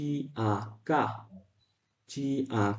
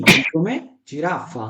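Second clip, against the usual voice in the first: slow drill; 3 dB louder, much slower than usual. Shown as a demonstration. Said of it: "teacher drills Italian word".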